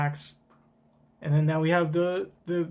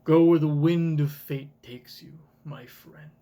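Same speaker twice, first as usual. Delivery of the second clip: a louder, grand line of the wise mentor; with some pizzazz; 5 dB louder than usual. Shown as a demonstration. Reciting the Dragon line to a friend, with pizzazz. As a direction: deliver it like a wise leader sending a friend off. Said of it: "with some pizzazz".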